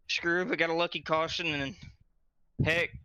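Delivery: breathless after the race; panting between words; out of breath. Real, not acted. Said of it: "oh, I'm out of breath".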